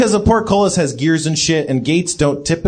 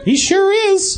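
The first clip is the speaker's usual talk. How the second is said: put-on robot baby voice.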